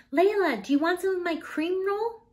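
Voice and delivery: put-on a kid sharing her treat; friendly classmate. A narrator's reading. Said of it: "asked Anna".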